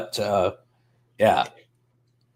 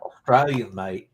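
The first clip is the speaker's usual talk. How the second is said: badly faked Aussie accent; terrible Australian accent; 3 semitones lower than usual. Streamer clowning for chat, terrible Australian accent. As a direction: have a clumsy go at sounding Australian. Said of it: "I have a terrible Australian accent".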